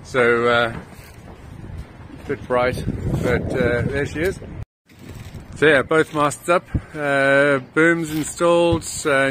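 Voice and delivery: shouting over wind. Real, not acted. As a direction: speak up over a gusty wind. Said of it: "So sorry about the wind noise".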